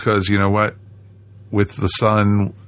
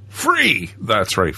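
mock sales pitch; much slower than usual.

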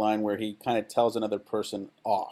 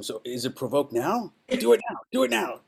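eager pleading; 4 semitones higher than usual. Retold or imitated. Eagerly begging Coburn.

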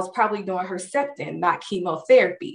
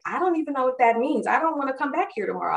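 higher and fast, tumbling out; overwhelmed rush; 5 semitones higher, 3 dB quieter, faster than usual. Retold or imitated. To the researchers, overwhelmed fast protest. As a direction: rattle it off, overwhelmed. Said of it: "And I'm like".

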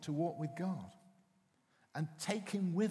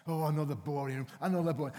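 put-on whining kid; 5 dB louder, faster than usual. Bored children complaining about another room, loud whine.

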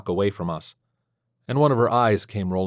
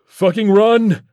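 high, loud scream of warning; full-voiced, urgent yell; panicked scream; 12 semitones higher, 9 dB louder, slower than usual. A narrator's reading. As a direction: scream for them to flee. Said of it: "I screamed".

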